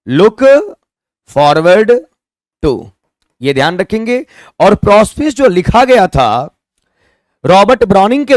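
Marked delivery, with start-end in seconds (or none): 0.1-2.9 dictated slowly. Shown as a demonstration. Teacher dictates phrase word by word.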